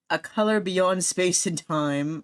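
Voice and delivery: slow, dramatic cosmic horror voice; mock ominous narrator. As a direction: intone it like eldritch lore.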